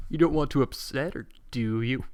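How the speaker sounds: a light imitation of Twilight's voice; mimicking Twilight. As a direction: lightly parody her scolding tone. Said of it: "You mimic her voice earlier".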